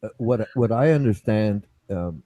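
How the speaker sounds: talking while eating; words round a bite of food; mouth full. Real, not acted. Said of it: "what are you eating?".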